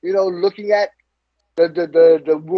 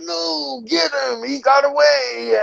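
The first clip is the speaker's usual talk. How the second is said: much higher, strained cry; desperate plea; 7 semitones higher, slower than usual. Retold or imitated. Macho Man restrained by cops, crying out to catch the attacker.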